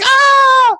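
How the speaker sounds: high loud excited shriek; imitated scream. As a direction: scream with delight. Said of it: "It's like".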